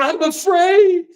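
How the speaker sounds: high, slow mock whimper; mock fearful whine. Mocking the MSNBC anchor in a high scared voice. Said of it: "And she's going".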